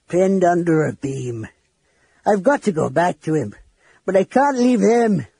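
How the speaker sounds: distressed dwarf, rising toward tears; near tears. A narrator's reading. Flint telling Sturm of trapped Tas, near tears. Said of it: "The dwarf began to cry".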